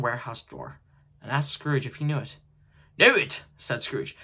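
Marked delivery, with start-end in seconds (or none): 3.0-3.4 sharp, higher, louder question; jolted by recognition; startled surprise. Acted. Scrooge startled by the warehouse.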